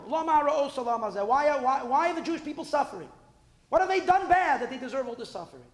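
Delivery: pained outcry. Acted. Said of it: "he's asking in general".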